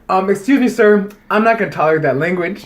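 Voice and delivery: prim, firm teacher scolding; stern teacher. Retold or imitated. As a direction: lay down the law like a schoolteacher. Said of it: "she laid it down".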